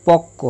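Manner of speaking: পক্ক said as pok-ko, with a doubled k; পক্ক with a long k and no b sound; doubled consonant. Shown as a demonstration. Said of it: "সংযুক্ত বর্ণের উচ্চারণ দ্বিত্ব হয়".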